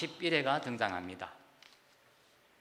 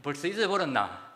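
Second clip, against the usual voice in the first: Gyeongsang dialect; 3 semitones higher than usual. Retold or imitated. Caller teasing his friend for forgetting his voice, laughing Gyeongsang dialect. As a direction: push it like an offended old pal in Gyeongsang dialect. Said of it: "다시 친구가".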